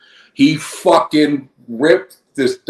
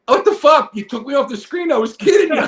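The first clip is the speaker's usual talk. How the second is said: much higher laughing shout; laughing mock outrage; 11 semitones higher than usual. Guest complaining to host he was cut off, laughing shout. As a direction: yell it in fake outrage, laughing through it. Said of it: "I go".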